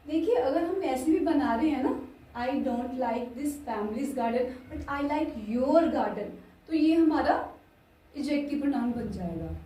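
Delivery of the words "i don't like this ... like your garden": slow dictation. Shown as a demonstration. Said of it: "slow dictation of example".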